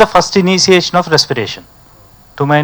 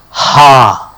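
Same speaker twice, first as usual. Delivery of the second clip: breathy ha; 4 semitones lower than usual. Shown as a demonstration. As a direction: let out a breathy ha. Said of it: "You say".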